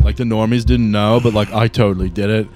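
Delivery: lightly voiced laid-back bro, gushing; a hint of a stoner fanboy rambling; vape bro. Vape bro telling Marcellus his cloud stories, lightly voiced.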